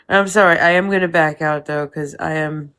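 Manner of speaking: drowsy from meds; sleepy, medicated speech; sedated. Real, not acted. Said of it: "the meds are kicking in".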